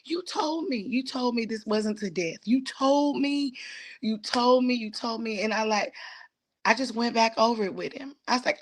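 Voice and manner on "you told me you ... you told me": higher, softening repeated plea; pleading with God. Retold or imitated. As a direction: repeat it like a wounded reminder to God. Retelling her plea to God.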